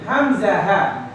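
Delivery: slow, clear throat letters; model letters to repeat. Shown as a demonstration. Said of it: "Repeat after me".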